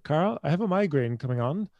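imitating lady driver. Driver warning her passenger of a migraine, lightly imitated. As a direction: lightly voice a woman announcing trouble. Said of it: "the lady who was transporting me".

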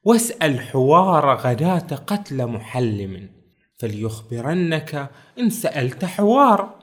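slow, declaimed verse; slow classical Arabic verse recital; poem recitation. Retold or imitated. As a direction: recite it slowly like an old poem. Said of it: "قال عمار بن عقيل".

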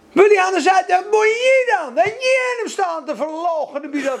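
high, loud scandalised protest; indignant outburst. Acted. Preacher voicing objection to Petrus who denied at the fire, loudly indignant. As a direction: throw the accusation back at him, outraged. Acted objection to Peter's own denial.

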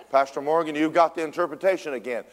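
mimicked call-out. Prayer leader singles out the pastor over pizza, calling out. Imitates Lynn calling on him again.

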